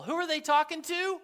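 ordinary talk

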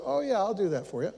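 quick, obliging "oh yeah I'll do that"; the agreeable husband voice; dutiful husband. Retold or imitated. Good husband agreeing to fetch phone, quick and obliging. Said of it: "the husband me that goes".

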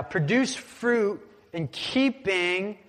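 "Produce fruit in keeping" drawn out very slow; slow emphatic scripture read; slow stressed reading. Shown as a demonstration. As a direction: spell it out slowly for the crowd. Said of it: "I say produce".

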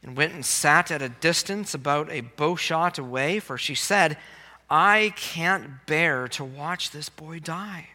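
measured, solemn Bible reading; scripture reading. Acted. Preacher reading Hagar's story to the congregation, scripture reading. Reads the scripture passage aloud.

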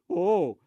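loud answering whoa; short burst of shock; startled whoa. Retold or imitated. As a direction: mimic his surprised "Whoa!". Man startled by the king costume.

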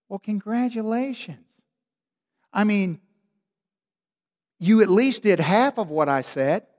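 a parent praising half-done chores, in mock; mock indulgent parent. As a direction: play the pushover parent.

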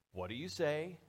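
lilting "what do you say?" rising at the end; sing-song prompt. Acted. Parent prompting child at Christmas, sing-song. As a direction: coax with a lift on "say". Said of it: "little sing-song almost".

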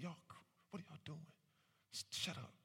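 fast, hushed warning to his friends; urging friends to be quiet in front of police, hushed; hushed urgent plea. Retold or imitated. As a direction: whisper at them to shut up, fast and scared. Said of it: "I'm like".

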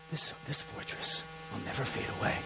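low, soft, unvoiced taunt from behind the walls; smug enemy. Pastor voices Jericho's defenders, low and hushed. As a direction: defenders sure their walls hold.

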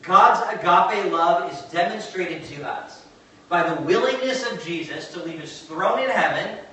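emphatic, deliberate preaching. Real, not acted. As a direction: proclaim it to a congregation, weighting the key words.

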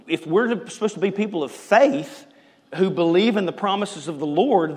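usual speaking voice

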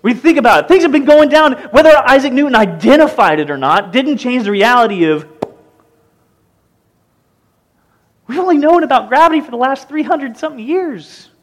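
loud, high, driving sermon voice; preaching at full force. Acted. Pastor rousing the congregation, loud and high. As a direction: hammer the point home to the room.

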